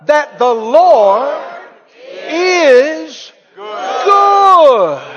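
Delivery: preacher leads the crowd in a loud shout; shouted response. Acted. Preacher urging church to shout it, loud shout. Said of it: "Come on, say that out loud".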